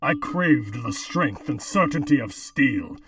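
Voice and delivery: robotic voice filter. Pretend. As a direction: intone it like a cult machine. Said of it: "try reading the copy pasta".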